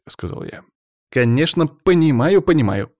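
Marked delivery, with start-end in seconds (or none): 1.1-2.9 agreeable reporter. A narrator's reading. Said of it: "закивал репортёр".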